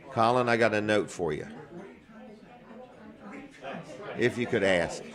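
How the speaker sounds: teeth chattering from the cold; shivering voice in freezing weather. Real, not acted. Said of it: "My teeth are chattering".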